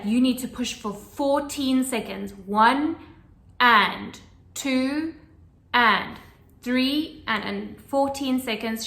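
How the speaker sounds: loud, firm count of each second; serious counting. Retold or imitated. Midwife counting seconds for the pushing mother, firm and loud. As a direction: drill the count into her. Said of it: "She was, like, really serious".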